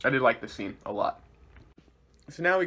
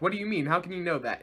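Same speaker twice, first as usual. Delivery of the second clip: higher-pitched incredulous demand; agitated questioning; 4 semitones higher, faster than usual. Retold or imitated. A villain questioning a colleague's claim, agitated. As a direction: act out a villain's indignant questioning. Villains challenging each other, retold.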